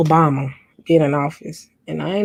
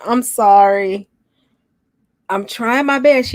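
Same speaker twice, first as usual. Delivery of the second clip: yawning; 4 semitones higher, 4 dB louder, slower than usual. Real, not acted. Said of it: "Every time I yawn".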